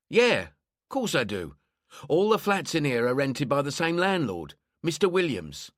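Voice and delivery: lightly voiced lonely neighbour; grumbling old London woman. Old woman answers question.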